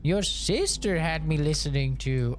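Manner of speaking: put-on high prim old-lady voice, shocked; mimicking mom. Son mimics mom's horror at sister's music, high and prim. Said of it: "She's like".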